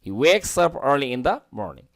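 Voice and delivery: American r in 'early' and 'morning'; American accent. Shown as a demonstration. Teacher repeating the sentence for learners, American accent. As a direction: read it linked, the American way. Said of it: "American উচ্চারণ".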